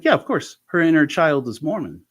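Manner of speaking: yeah jumps high, light and casual; breezy therapist. Retold or imitated. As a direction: toss it off like it's obvious.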